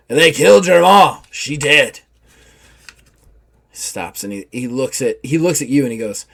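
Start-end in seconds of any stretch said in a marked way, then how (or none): 0.1-2.0 louder, higher rough pirate, pressing. Acted. Simon Grimes confronting the soldier about his loyalty, in pirate voice. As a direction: challenge him hard. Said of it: "And he's like".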